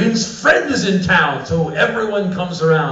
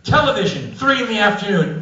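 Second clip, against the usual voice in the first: mock pondering; 6 semitones higher than usual. American visitor pretends to consider afternoon television, mock pondering. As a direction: make a show of thinking it over. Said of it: "that was my reaction".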